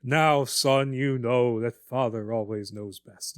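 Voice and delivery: slow, lecturing fifties father; condescending sitcom dad, drawn out; folksy old sitcom dad. Retold or imitated. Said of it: "the douchey fifties dad voice".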